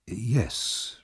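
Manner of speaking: quiet, careful yes; cautious. A narrator's reading. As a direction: answer warily, holding back. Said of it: "replied Mister Bumble cautiously".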